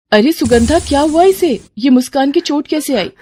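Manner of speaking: high, worried questioning; alarmed concern. Acted. Neighbour finding her friend's child hurt, high alarmed voice.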